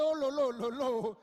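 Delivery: lightly voiced girl in awe; lilting impressed coo; girl's amazement. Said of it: "The girl said".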